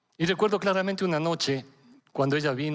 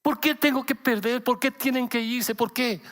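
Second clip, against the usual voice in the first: higher-pitched, anguished questioning; pained pleading; 6 semitones higher than usual. Retold or imitated. Father voicing his grieving daughter's questions, pained and pleading. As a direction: plead for a reason, pitch raised in hurt. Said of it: "con dolor".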